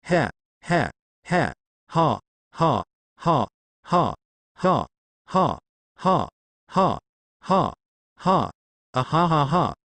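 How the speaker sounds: mechanical, evenly spaced ha-ha laugh; read-out laughter. A narrator's reading. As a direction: fake a laugh as separate spoken syllables. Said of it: "he bursts out laughing".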